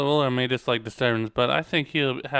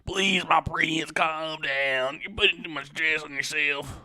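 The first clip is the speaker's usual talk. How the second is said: slow, gentle woman's plea, slightly higher; 4 semitones higher, slower than usual. Acted. Woman calming the stressed prince, slow higher voice. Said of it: "was that a voice crack".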